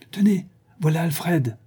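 high, sudden announcement; exclaiming. Acted. Portress announcing Alfred's arrival, exclaiming. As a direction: cry it out as someone appears. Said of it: "s'écria la portière".

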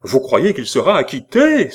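high, loud anxious cry. Acted. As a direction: blurt it, fingers clenched. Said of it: "s'écria Jeanne".

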